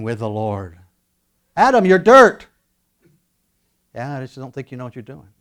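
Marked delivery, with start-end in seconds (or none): 1.6-2.5 God rebuking. Acted. 3.9-5.3 Adam grumbling. Acted. Adam grumbles back to God.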